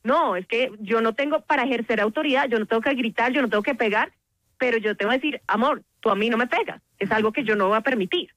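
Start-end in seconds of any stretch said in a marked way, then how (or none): 5.5-8.3 calm firm boundary in an everyday pitch; firm, not shouting. Shown as a demonstration. Parent telling a child hitting is not allowed, calmly firm. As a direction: set the limit evenly, without yelling. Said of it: "Y en este tono, o sea, yo no estoy gritando".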